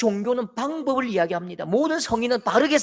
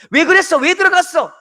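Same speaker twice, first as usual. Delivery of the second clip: high and loud scolding; God pictured yelling at the sinner; shouted blame; 8 semitones higher, 10 dB louder than usual. Retold or imitated. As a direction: yell it in reproach. Shouting that God does not do.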